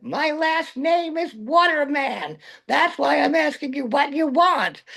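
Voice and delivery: high, slow, amused mother; mother explaining. Retold or imitated. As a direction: lay it out slowly, half laughing. Mother explaining her name.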